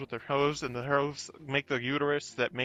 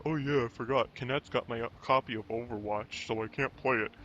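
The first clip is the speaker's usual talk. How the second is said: imitated offhand tone; 4 semitones lower than usual. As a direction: lightly mimic a friend's dull excuse. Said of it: "he said it in that tone".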